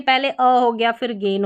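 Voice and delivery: "अ" first, then "गेन" as a separate part; broken-up word demo. Shown as a demonstration. Teacher explains the split to learners, saying "अ" and "गेन" separately. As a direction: sound out "अ" and "गेन" apart. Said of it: "तोड़ कर पढ़ रहे हैं".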